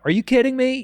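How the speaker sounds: high, exasperated disbelief; a side-eye kind of are you kidding me; imitating the actress's side-eye disbelief; realistic incredulity. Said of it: "a very realistic take on".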